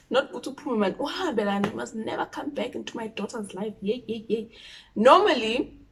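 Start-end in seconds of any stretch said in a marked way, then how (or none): 1.0-3.7 yelling mom. Retold or imitated. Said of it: "she's yelling".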